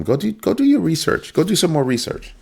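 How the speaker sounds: high-pitched mock admonishing; retold exhortation. Telling a friend's kid off over Bitcoin, insistent.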